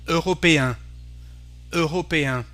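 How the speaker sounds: européen ending on a nasal "an", no N sounded; French nasal ending. Shown as a demonstration. Teacher showing the sound at the word's end, French nasal ending. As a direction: say européen with a nasal final vowel. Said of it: "we have the sound un".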